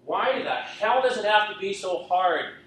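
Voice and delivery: a desperate yell to God. Retold or imitated. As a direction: shout it at heaven. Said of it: "I would yell out".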